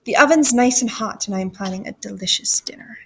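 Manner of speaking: soft, scheming witch; sly witch, fading toward a whisper; worst witch. Acted. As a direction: confide a wicked plan quietly. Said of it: "said the worst witch".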